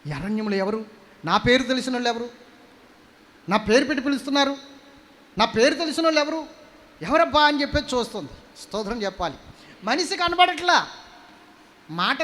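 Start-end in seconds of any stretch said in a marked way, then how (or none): none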